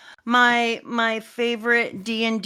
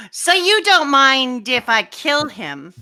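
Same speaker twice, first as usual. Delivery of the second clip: slow, drawn-out villain question; lightly voiced, deliberate menace; Gunko; 3 semitones higher, much slower than usual. Villain threatening to kill the hostage boy, coolly menacing. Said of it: "That's a good Gunko voice".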